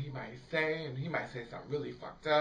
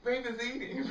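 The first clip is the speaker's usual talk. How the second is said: higher, giggling self-tease; high giggle mocking own snacking; laughing; 9 semitones higher than usual. Real, not acted. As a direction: laugh through the joke about yourself. Joking about herself eating.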